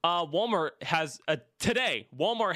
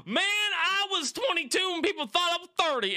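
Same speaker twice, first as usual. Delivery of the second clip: excited high voice; 14 semitones higher than usual. Retold or imitated. Excitedly quoting a hoped-for reply.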